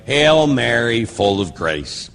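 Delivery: slow, reverent reading of the prayer, falling away at the end; slow prayer recitation. Shown as a demonstration. Priest showing his class how the Hail Mary is said, slow and reverent. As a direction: recite it slowly like a prayer in church. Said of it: "We say that by saying".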